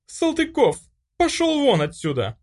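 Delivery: very high, loud shout; angry shout. A narrator's reading. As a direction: chase him off, yelling. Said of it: "крикнула Ника".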